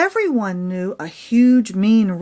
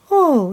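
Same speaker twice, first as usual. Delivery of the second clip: soft cackle; 5 semitones higher, 5 dB louder than usual. Acted. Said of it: "she cackled softly".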